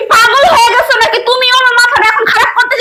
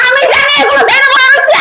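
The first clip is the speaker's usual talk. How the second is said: tearful yell; 2 semitones higher than usual. Acted. Wife yelling in money quarrel.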